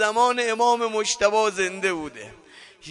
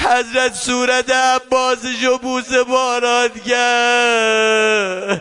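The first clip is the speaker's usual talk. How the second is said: slow, sung line with a catch of crying; tearful; slower than usual. Acted. Preacher weeping as the father kisses his son. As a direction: let the tears break into the chant.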